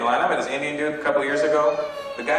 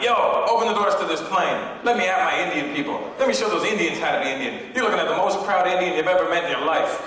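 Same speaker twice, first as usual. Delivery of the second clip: mock yell, pitched up; big proud militant act, only mildly raised; retold yelling; 6 semitones higher than usual. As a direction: demand it with hammed-up pride, higher voice. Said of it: "I'm yelling at the stewardess".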